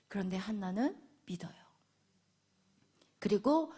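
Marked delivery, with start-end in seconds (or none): 0.1-1.5 softer, hushed reveal; whisper. Real, not acted. Preacher whispering Hannah's faith to the congregation. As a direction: lean in and whisper the point.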